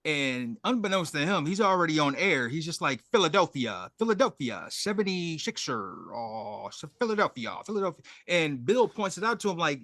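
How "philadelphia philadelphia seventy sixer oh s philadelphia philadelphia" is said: mock on-air fumble, stumbling over repeated words; mock tongue-tied announcer losing it; imitating flustered sputtering. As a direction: lightly stammer through a botched broadcast. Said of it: "starts spitting and spattering out there".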